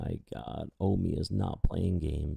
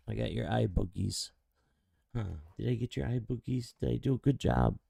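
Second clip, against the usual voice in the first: higher, quick sing-song to a dog; pet talk; 5 semitones higher, faster than usual. Real, not acted. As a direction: praise the dog gently. Cleaning dog's eyes, baby talk.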